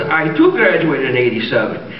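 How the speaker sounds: slow, lilting Irish brogue; jokey drawn-out Irish accent. Acted. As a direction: claim it slowly as a stage Irishman. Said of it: "do I detect a bit of Irish?".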